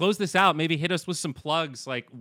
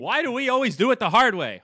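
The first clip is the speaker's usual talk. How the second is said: laughing; 11 semitones higher, 8 dB louder than usual. Real, not acted. Joking along with the host.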